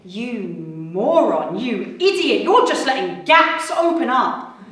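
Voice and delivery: rising angry rant at a stranger; building from a mutter to a loud rant; muttered insults. Retold or imitated. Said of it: "I mean".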